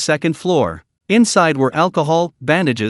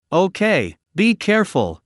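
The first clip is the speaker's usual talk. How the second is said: a touch of loss; 4 semitones higher than usual. Acted. Girl sending Bai Yin off, sounding lost. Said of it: "voice still carried an unspeakable sense of loss".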